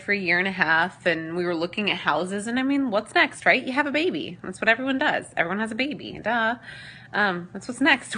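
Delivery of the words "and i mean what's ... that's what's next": mock obviousness. Mocking what everyone expects.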